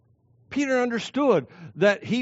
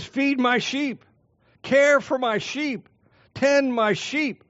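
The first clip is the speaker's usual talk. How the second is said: slow solemn charge; 6 semitones higher, slower than usual. Acted. Jesus' charge to Peter, drawn out.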